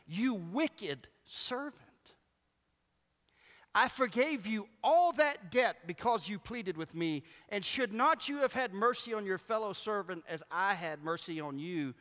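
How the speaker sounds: mock indignant master's rebuke; angry master. Master rebukes servant in parable.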